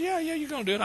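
high-pitched, brushing-off reply; mock impatient reassurance; dismissive insistence. Lord brushes off Moses' protest.

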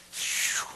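a sharp unvoiced "phew"; heavy exhale. Real, not acted. Preacher fighting tears mid-testimony, heavy exhale. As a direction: blow out a breath to hold back tears.

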